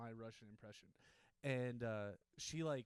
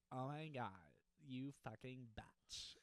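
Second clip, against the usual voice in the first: put-on low valley girl. Shown as a demonstration. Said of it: "too much bass in it".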